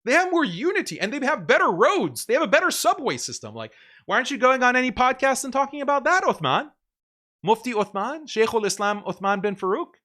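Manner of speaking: fired-up taunting of a rival, escalating; heated mocking rant. Real, not acted. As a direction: pile on the taunts, voice climbing. Ranting mockery at opponent.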